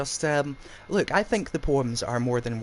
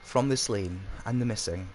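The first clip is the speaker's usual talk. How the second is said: poem recital. Acted. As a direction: read it like a haunted confession. Host reads Silent House poem.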